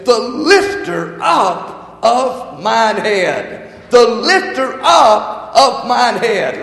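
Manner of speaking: the lifter up of mine head drawn out slowly; slow emphasis. Shown as a demonstration. Pastor savoring the verse for the congregation, slow and weighty. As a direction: linger over every word. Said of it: "watch this".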